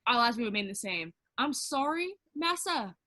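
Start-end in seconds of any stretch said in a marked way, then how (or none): 1.4-3.0 high-pitched, sarcastic mock deference; mock apology. Answering the white man's post, sarcastic mock apology. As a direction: play up a fake servile apology.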